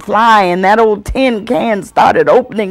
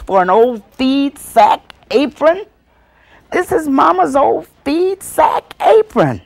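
scornful scolding; 4 semitones higher than usual. Acted. Aunt scolds child over snatched apron.

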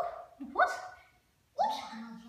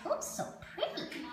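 whisper; 7 semitones higher, 9 dB quieter than usual. Real, not acted. Whispering to the parrot.

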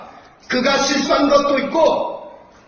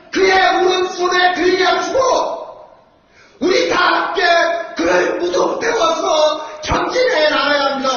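roaring rallying speech; 2 semitones higher than usual. Real, not acted. Rally climax shouted.

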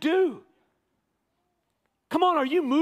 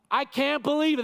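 astonished; 3 semitones higher than usual. Acted. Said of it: "That's how he starts".

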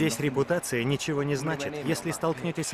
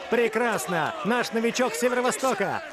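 calling out; 4 semitones higher than usual. Acted. Coach calling out to team.

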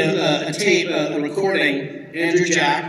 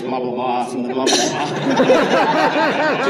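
mock dismissive; 2 semitones lower, slower than usual. Mock mumbling filler.

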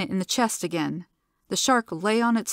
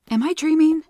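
stunned disbelief; 9 semitones higher, 5 dB louder than usual. A narrator's reading. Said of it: "Zilla said aloud".

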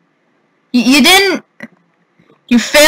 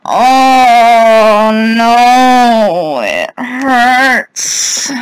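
long, drawn-out wailed groan; pained moaning; much slower than usual. Real, not acted. Player lamenting the loss, it hurts, pained moaning. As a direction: stretch each word into a pained moan. Moaning after losing in game.

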